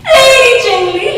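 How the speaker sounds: high, loud call rising at the end; loud sing-song English call; high calling lilt. Acted. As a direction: call Lady Jingly up and out. Bear calls out in verse.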